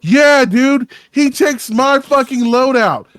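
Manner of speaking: loud, high-pitched protest; indignant, voice climbing. Real, not acted. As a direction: complain loudly, voice shooting up in outrage. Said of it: "getting so mad that his prepubescent boy's coming out".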